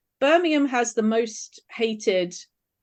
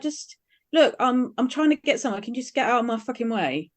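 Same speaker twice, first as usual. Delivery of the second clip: Essex accent; 2 semitones higher than usual. Shown as a demonstration. Playing someone from the Essex borders trying to get past, Essex accent. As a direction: lean hard into an irritated Essex accent. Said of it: "you have to lean into it".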